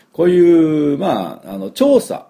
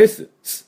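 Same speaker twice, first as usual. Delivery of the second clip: S sound demo; 14 semitones higher than usual. Shown as a demonstration. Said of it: "この三つをしっかり出さないと".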